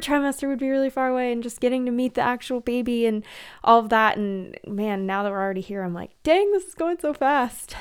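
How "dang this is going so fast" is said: higher-pitched mock astonishment; raised, exclaiming quote of your own reaction; amazed self-quote. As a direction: act out being startled by how fast. Quoting her own amazed reaction.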